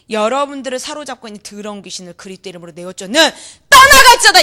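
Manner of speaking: ordinary delivery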